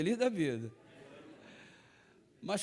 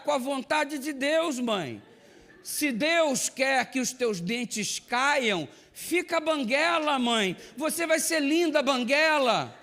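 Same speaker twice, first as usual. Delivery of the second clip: higher, louder mock sermon with a laugh; teasing payback; 8 semitones higher, 4 dB louder, slower than usual. Son mockingly preaches his mother's words back at her, higher and louder. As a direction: give her own lecture back to her, gleefully.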